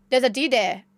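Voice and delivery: imitating a thick Norwegian accent; lightly mimicked Norwegian English. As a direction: say it as a Norwegian with swallowed r sounds. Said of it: "such a strong Norwegian accent".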